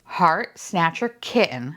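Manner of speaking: measured word-by-word naming; careful, slow articulation. Real, not acted. Avoiding saying kitchen by mistake, slow careful naming. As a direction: say the name carefully so it comes out right. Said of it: "I have to say it very slowly".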